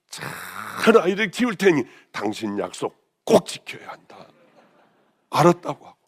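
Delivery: ordinary talk, nothing marked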